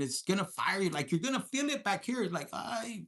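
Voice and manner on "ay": soft ay. Shown as a demonstration. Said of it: "maybe with this voice".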